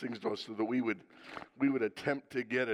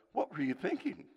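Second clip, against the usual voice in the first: gentle, no sarcasm; 4 dB quieter than usual. Shown as a demonstration. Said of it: "if you don't say it with sarcasm".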